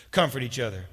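emphatic. Shown as a demonstration. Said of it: "here's your job description".

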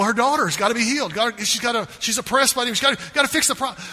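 rising, hurried, anxious insistence; frantic worry. Retold or imitated. Mother frets to herself over her sick daughter, rushed and urgent.

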